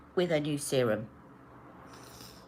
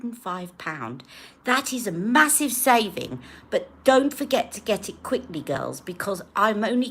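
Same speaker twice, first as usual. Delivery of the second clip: Charlotte Tilbury impression. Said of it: "I'm gonna do a Charlotte".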